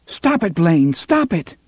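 rising to a high cry; pleading shout. A narrator's reading. Susanna begs laughter to stop.

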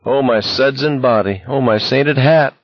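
high mock exclamation; giggly jibing. A narrator's reading. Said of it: "he giggled again".

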